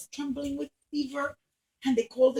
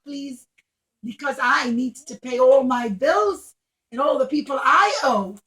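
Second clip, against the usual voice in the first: grand rich lady; 7 dB louder than usual. Acted. Rich Roman lady welcoming Rabbi Akiva, loud and gracious. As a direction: greet him like a generous grand lady.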